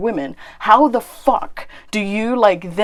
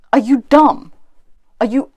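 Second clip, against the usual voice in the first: "Are you dumb?" pitched higher and louder; angry jab; 4 semitones higher, 5 dB louder than usual. Real, not acted. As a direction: bark the question in disbelief. Insulting Ali Dawah.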